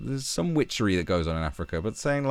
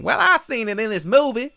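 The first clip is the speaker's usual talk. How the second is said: high, loud dumb-guy voice; mock clueless American; 6 dB louder than usual. Mocking Americans who think movies teach them African witchcraft, high and loud. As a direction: sound like someone who learned it all from films. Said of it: "is going".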